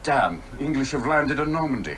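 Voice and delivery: mock German officer. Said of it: "the old war movies".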